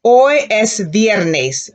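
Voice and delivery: slow and clear, each word apart; slow repeat-after-me model; slow model sentence. Shown as a demonstration. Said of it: "Repeat that, class".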